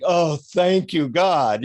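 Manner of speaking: slow, drawn-out relieved thanks; relieved gratitude. Retold or imitated. Hot traveller reaching air conditioning, relieved gratitude. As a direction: sigh out thanks for cool air. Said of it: "When it's a hundred and ten degrees".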